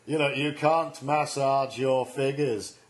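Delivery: imitating Gordon McBroom. Comedian re-enacts McBroom's debate joke at Cameron. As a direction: deliver the jibe low and slow. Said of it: "Like that? Except in a Scotch accent".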